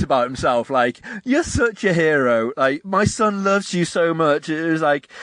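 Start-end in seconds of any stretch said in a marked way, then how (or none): 1.2-4.5 slow, stretched-out gushing; mock adoring parent. Parent praising the Hoff in his own book, mock adoration. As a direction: lay on the parent's gratitude, mockingly. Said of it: "they see him start crying".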